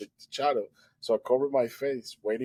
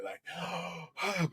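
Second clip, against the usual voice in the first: exhausted gasp; 7 semitones higher, 7 dB quieter than usual. Retold or imitated. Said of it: "because I was super tired there".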